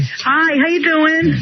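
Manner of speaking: breathless greeting; slightly winded, slow; out of breath. Real, not acted. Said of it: "Why are you out of breath".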